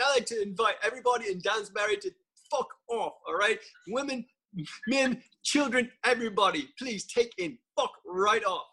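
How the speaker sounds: a mocking, hammed-up farewell to the whole town; mock host rant. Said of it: "He's like".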